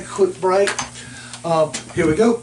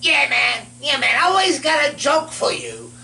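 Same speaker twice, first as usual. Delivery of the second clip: Southern skeleton voice; 3 semitones higher than usual. Pretend. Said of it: "Southern skeleton voice".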